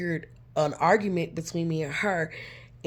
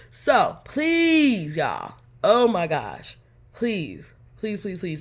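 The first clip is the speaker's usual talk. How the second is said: begging; 2 semitones higher, 4 dB louder, much slower than usual. Real, not acted. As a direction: plead with the audience. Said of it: "pleading with viewers".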